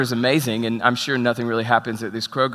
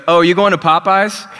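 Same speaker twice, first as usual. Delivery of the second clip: eager; 6 semitones higher, 7 dB louder than usual. Retold or imitated. Second homeless man walks up eagerly.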